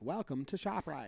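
robotic, animatronic robot voice. Commenting on a woman's way of talking, doing a robotic mall animatronic voice. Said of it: "it could be like an animation at a mall".

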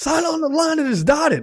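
very high, shouted wrestling-promo call-out. Retelling how a man came in acting like a wrestling promo: imitating a wrestling promo. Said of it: "acting like it was, like, a, a wrestling promo".

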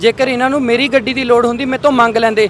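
ordinary talk, nothing marked

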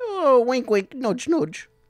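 very high squeaky voice, pitched way up. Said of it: "an Eric Idle impression".

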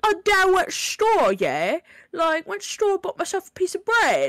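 very high, lilting, sing-song put-on Cockney accent. Mocking how Cockney speakers talk, Cockney accent. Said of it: "just the Cockney accent in general. They're like".

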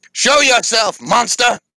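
very high, loud shout. A character calling out to an unseen foe, with a loud shout. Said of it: "He is very loud".

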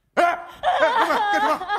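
high, loud call through laughter.

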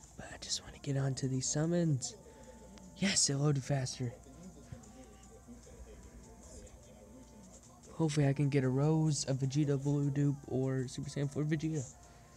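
low-key voice, kept down. A streamer in an apartment talks through game summons, half-whispering. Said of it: "I'm just whispering because I'm in an apartment".

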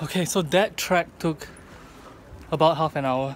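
breathless and winded. Just after finishing a half-hour track, out of breath. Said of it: "I'm completely out of breath".

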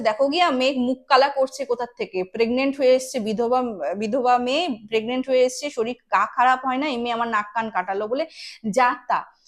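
plain

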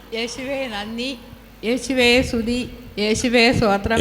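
ordinary delivery

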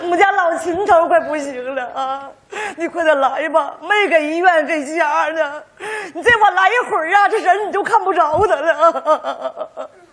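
exaggerated, panicked, high-pitched, over-the-top frantic pleading. Told to make it more dramatic, phoning Liu the eldest: exaggerated frantic phone call. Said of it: "整写乎点啊！".

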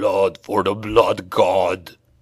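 low hiss with a deep rumble under it. Narrating a fantasy story, a beastman faces the hunter, low rumbling hiss. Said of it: "it hissed, its voice low and rumbling".

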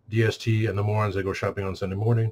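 plain

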